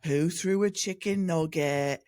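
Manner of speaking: slow, stretched British mimicry; parroted British accent. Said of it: "a mockingbird".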